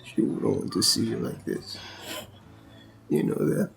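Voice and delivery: low, hushed pleading; gentle pleading. Acted. Husband begging his grieving wife to eat, low gentle plea. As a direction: softly coax her to eat.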